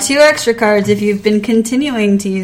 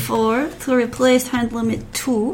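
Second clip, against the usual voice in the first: Dexter voice. Acted. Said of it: "What accent is that?".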